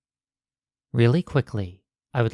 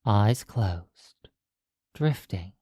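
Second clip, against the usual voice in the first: measured hypnosis voice with long pauses; hypnotic guiding. Acted. Hypnotist guiding a listener across the threshold into the mind, hypnotic guiding. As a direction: lead them gently inward, one phrase at a time.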